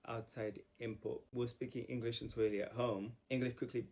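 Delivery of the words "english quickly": usual speaking voice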